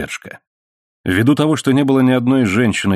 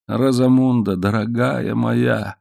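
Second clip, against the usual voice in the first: tender; 3 semitones higher, slower than usual. Acted. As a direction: speak to her lovingly. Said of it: "сказал он нежно".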